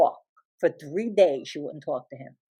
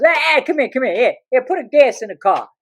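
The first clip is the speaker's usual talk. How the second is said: hushing father; 3 semitones higher than usual. Retold or imitated. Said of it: "He goes".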